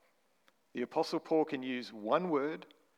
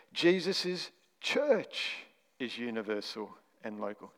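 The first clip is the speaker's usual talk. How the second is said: weight the word church in Jesus' church is universal and local; stress on CHURCH; 3 semitones lower than usual. Shown as a demonstration. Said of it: "this time we're looking at the word church".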